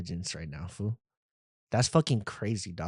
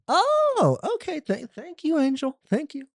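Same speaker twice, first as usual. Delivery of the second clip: meek thanks; 14 semitones higher than usual. Retold or imitated. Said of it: "And I'm like".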